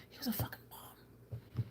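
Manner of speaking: unvoiced whisper of disgust; whispered aside. Real, not acted. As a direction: breathe it like a secret insult. Whispered repeat of her complaint.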